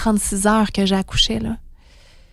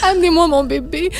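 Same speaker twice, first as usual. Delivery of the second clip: demanding nurses; 6 semitones higher, faster than usual. Retold or imitated. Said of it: "j'engueule les infirmières".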